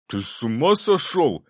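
high, slow, stunned disbelief; aghast, can't believe what he hears; a shocked friend asking if he's lost his mind; astonished. A narrator's reading. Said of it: "изумился Цепляев".

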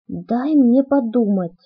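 slow, firm and deliberate; calm insistence on thinking it over; firmly. Acted. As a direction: set the words down firmly. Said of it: "твёрдо сказала я".

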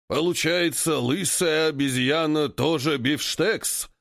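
slow, dim-witted ape voice; ape leader voice. Acted. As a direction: drag it out like a lumbering ape. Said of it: "Чешет подбородок новый вожак". (медленный голос вожака-обезьяны)

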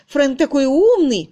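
high loud mock gush on умный; mimicking her fawning praise. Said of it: "как ты выставлялась перед своим лордом".

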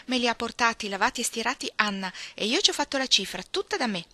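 voce più acuta e un po' più forte; orgoglio di bambina. Acted. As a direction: racconta fiera il proprio lavoro. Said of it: "guardando con orgoglio". (orgoglio infantile, con voce acuta)

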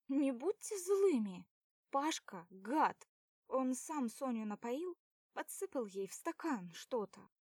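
put-on girl pleading with the boys. A narrator's reading. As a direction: plead and accuse at once. Lina pleads, accuses Pasha.

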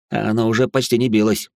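ordinary delivery, nothing marked

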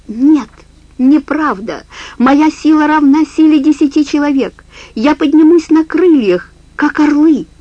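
high, loud defiant cry; defiant old woman. Acted. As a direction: rise up in defiance. Old woman defies the wolf. (вызывающий голос старухи)

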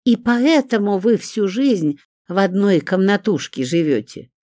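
high, theatrical mock amazement; theatrical scorn. A narrator's reading. Olga jeering at Zinka's cramped room, theatrically scornful. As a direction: play the scorn to the gallery. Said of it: "театральным голосом захохотала Ольга".

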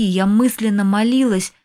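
ordinary delivery, nothing marked

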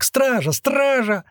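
put-on very high, squeaky boy's cry; squeaky yelling. A narrator's reading. Second boy calling the guards, yelling squeakily. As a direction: call out in a piping, high voice. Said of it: "завопил второй писклявый голос".

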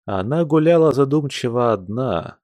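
ordinary delivery

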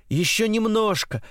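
high-pitched, excited coaxing; eager plea. A narrator's reading.

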